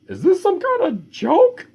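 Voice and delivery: high, sharp, irritated question; snapping vet. Acted. Vet snapping at the worried father, high and sharp. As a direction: snap it as if you're being pranked. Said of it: "snapped the vet".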